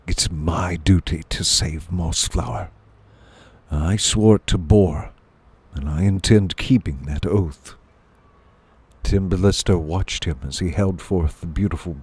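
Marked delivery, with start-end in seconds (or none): 0.1-7.8 understated, lower vow; lightly voiced solemn warrior. Voices Martin swearing his oath.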